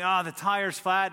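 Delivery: retold exasperated cry; freaking out. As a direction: act out a mild freak-out over car trouble. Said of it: "freaking out".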